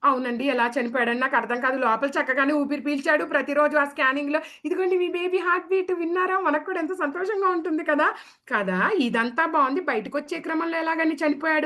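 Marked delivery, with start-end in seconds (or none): 4.6-8.1 higher, quick and bright as a scan doctor; cheerful doctor voice. Acted. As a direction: show the parents the heartbeat happily. Scan doctor showing heartbeat. (సంతోషంగా, వేగంగా doctor గొంతు)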